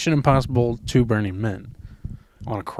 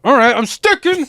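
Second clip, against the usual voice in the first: high-pitched voice; 13 semitones higher, 6 dB louder than usual. Retold or imitated. Quoting a crazy Twitter video.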